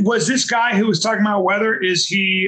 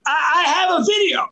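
whiny, pitched-up mock cry; sniveling send-up of a caught friend; hammed-up blubbering excuse; mocking Sam; 5 semitones higher than usual. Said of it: "this is my impression of you".

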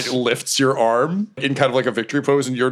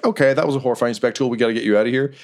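quick, hurried; 3 semitones higher, much faster than usual. Acted. Companion escorting the fighter out, quick and hurried. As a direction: hurry them along briskly. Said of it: "kind of quickly, like".

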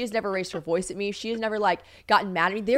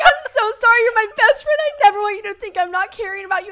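high, loud tearful wail in imitation; exaggerated weepy apology; mock crying; 13 semitones higher, 8 dB louder than usual. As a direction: wail the apology like a hammed-up sob. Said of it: "having a crying fight".

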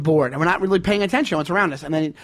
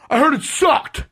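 higher-pitched imitated heckle; mock shout back; 7 semitones higher than usual. Imitating the frustrated guy from the back, mock shout. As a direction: imitate a sore jab called from behind. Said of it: "I can't believe he shouted back".

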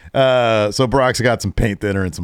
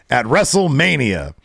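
announcer voice; 5 semitones higher than usual. Retold or imitated. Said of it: "he does his best announcer voice".

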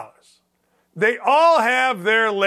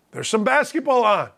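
ordinary delivery

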